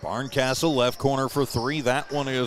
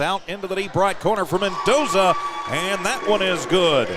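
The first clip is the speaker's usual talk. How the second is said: excited; 4 semitones higher than usual. Real, not acted. Corner three called live.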